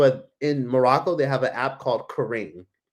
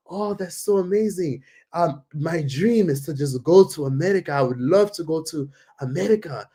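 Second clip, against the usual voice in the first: imitated wistful gushing, slightly raised voice; dreamy stranger; 3 semitones higher than usual. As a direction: mimic a local sharing a big dream. Voicing stranger dreaming of America.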